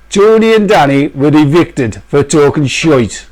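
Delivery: slow, mock-solemn announcer read; Big Brother announcer. Host announcing their own eviction, slow mock announcer voice. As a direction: announce the eviction slowly, deadpan.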